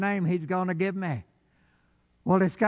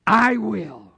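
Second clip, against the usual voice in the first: loud proclamation; 5 semitones higher, 6 dB louder than usual. Acted. Preaching the promise.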